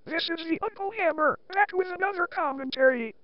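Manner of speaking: text-to-speech robot voice; computerized voice. Shown as a demonstration. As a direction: read it like a TTS voice. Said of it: "using this computerized voice".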